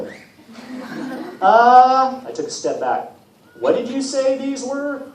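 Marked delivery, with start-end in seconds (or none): 3.6-5.0 unsure question. Acted. Percy unsure of name.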